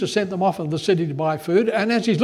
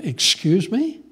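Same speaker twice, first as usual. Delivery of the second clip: indignant Samaritan woman; 3 dB louder than usual. Acted. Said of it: "said to him".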